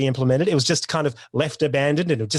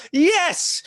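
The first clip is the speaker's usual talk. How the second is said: sarcastic yes; 13 semitones higher than usual. Acted. Sarcastic cheer at gas plan.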